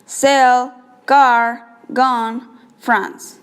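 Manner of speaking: "Cell, car, gun, France" as evenly timed single beats; steady beat. Shown as a demonstration. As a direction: hit each word on a constant beat, pausing between. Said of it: "maintain a constant beat on the stressed words".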